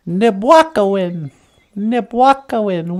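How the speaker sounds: Nibwakawin said slowly, low and drawn out; Ojibwe word said slowly. Shown as a demonstration. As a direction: sound out Nibwakawin syllable by syllable.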